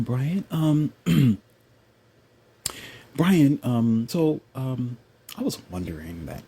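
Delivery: hesitant, softened, over-careful questioner; mock feminized man. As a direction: stammer timidly through a mock interview question. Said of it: "you know how they talk?".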